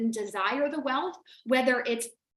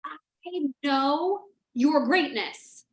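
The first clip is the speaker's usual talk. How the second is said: sincere and emotional; much slower than usual. Real, not acted. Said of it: "Oh, I could get emotional".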